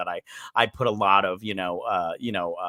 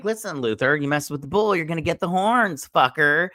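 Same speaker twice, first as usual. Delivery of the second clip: tough-guy threat; 4 semitones higher than usual. Pretend. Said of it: "I'm all like".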